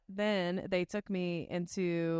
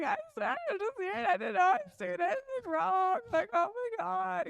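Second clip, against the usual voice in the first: much higher, rushed apology; panicked pleading; 13 semitones higher than usual. Retold or imitated. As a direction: plead like a scared kid caught out. Her own plea to the interrogators.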